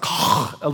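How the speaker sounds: rasped guttural breath from the throat; throaty Hebrew sound. Shown as a demonstration. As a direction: scrape air through the throat, voiceless. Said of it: "it kinda comes from the throat".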